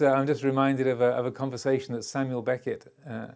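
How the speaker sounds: usual speaking voice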